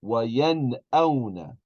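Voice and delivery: وَيَنْأَوْنَ with a clear, unchanged n before the hamza; full noon. Shown as a demonstration. Teacher shows the class a normal noon, وَيَنْأَوْنَ with a full clear n. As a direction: sound the n fully in وَيَنْأَوْنَ, then the glottal stop. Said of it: "pronounce the noon normally".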